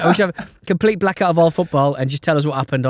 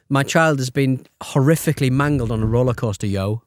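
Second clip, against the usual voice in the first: casual yo example; 3 semitones lower than usual. Shown as a demonstration. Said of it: "Give an example".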